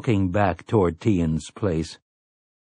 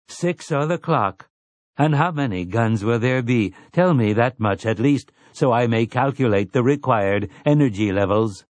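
a hint of a prim, eager robot servant; lightly voiced robot. Robot Andy agrees to help Eddie, lightly voiced prim robot. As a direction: chirp it lightly, like a polite machine.

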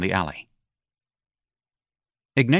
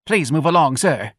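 bold lady; 6 semitones higher, 3 dB louder than usual. Acted. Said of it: "a bold lady said".

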